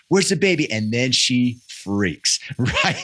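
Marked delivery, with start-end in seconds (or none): 0.1-0.7 put-on high, rising-panic child's question; higher pitched child's frantic question; panicked child. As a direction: voice the girl as she starts to panic. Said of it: "she's like".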